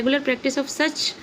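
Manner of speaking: sentence read slowly and clearly for the class; teacher reading a textbook line slowly to pupils; slow read-aloud. Shown as a demonstration. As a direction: read it word by word, as if dictating. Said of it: "ये क्या बोल रहा है?".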